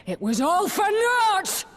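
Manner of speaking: high, loud bitter cry; anguished shout. Acted. Prisoner to the rebel leader, sudden anguished shout. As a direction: explode out of the whisper. Whisper bursting into a scream.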